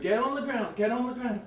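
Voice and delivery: loud barked command, get on the ground; yelling gunman. Retold or imitated. Gunman yelling at a suspect in the lot, loud commands. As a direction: shout it like a man holding a gun.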